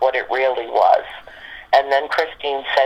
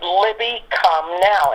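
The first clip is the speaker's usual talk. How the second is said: higher, mildly aggravated command, retold; aggravated dog call; 5 semitones higher, slower than usual. Auntie out in the cold ordering the dog in, mildly aggravated. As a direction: call the dog with a touch of impatience. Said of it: "starting to get a little aggravated".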